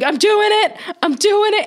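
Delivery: high, loud giddy mom voice; thrilled mom. Retold or imitated. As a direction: squeal it like it's a game. Mom voiced running red light.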